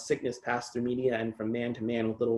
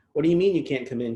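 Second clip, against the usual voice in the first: put-on Cholo accent; 4 semitones higher, 4 dB louder, faster than usual. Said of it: "she talked in a Cholo accent".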